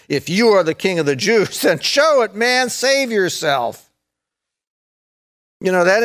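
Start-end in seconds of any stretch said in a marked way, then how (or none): 0.1-3.9 taunting with a light laugh, dragging save yourself; mocking taunt. Soldiers mocking Jesus, taunting with a light laugh. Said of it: "came up and mocked him".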